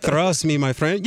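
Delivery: a friendly mimic of Giannis, "Trust" with a th start; Giannis's trust. Analyst acts out a stranger using Giannis's "Trust" with th. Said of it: "the way he just says trust in his accent".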